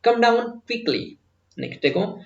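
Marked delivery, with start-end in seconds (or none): 0.1-1.0 higher, urgent quickly called out. Shown as a demonstration. Teacher demoing a quick call to come down. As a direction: rush it like calling a child down. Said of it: "ऐसे इसको fast भी लेके चलना".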